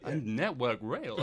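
slow, drawn-out newsy link; shifted presenter voice. Retold or imitated. Imitating presenter's voice shifting into news, drawn out. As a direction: stretch out the name like a presenter. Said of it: "And then the voice shifts into the".

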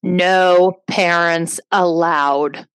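slow, drawn-out announcement; slow loudspeaker voice. Retold or imitated. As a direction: boom it out slowly. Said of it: "what it was like to hear that".

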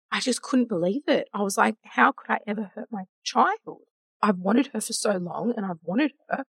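fighting back tears as the memory returns; getting emotional. Real, not acted. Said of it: "all of a sudden I'm getting emotional".

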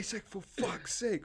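high, exasperated shout of a name; exasperated yell. Retold or imitated. Friend yelling at Isaac to get rid of the beer, exasperated. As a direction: scold him in a high, urgent yell.

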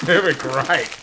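crunching chips. Real, not acted. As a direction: mouth full of chips. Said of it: "Can you hear the crunch in the mic?".

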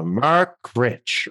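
name broken by a fake sob; mock tearful introduction. Crying host announcing the comedian, mock sobbing. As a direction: cry out the name, hammed up. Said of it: "they're crying and just sniffing".

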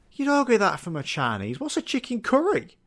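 high mock outrage; lightly voiced shocked friend; mock snooty friend. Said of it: "their faces are like".

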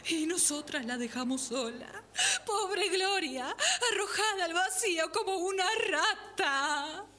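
hammed-up tearful wailing; overdone grief, half laughing; mock sobbing. Medium mourning dead friend. (llanto exagerado de médium)

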